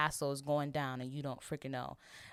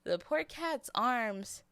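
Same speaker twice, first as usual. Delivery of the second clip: near tears; 2 semitones higher than usual. Real, not acted. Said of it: "I'm not crying".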